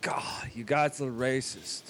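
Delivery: slow, hushed attempt at an English accent; badly faked English accent, soft and drawn out. Pretending to be British friend Mart, in a bad English accent. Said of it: "that is the shittiest English accent ever".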